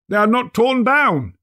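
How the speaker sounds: put-on old man overjoyed at his bed curtains; joyful cry. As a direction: cry out in disbelieving joy. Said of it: "cried Scrooge".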